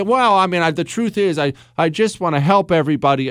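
lightly mocking a hedging candidate; mealy-mouthed politician. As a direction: stumble through a safe campaign line. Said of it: "I detest talking like that".

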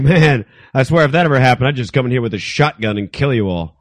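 creepy producer. Retold or imitated. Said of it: "he'd be like".

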